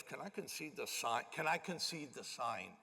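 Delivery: quiet, leaning-in murmur; hushed aside. Retold or imitated. Lawyer quietly asks the pastor in the meeting, hushed. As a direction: ask it softly so the council won't hear. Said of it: "leans over to me and goes".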